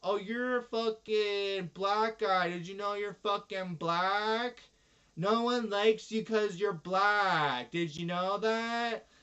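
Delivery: mocking racist relative. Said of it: "that's the kind of people".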